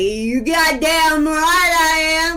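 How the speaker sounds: high, slow yelling.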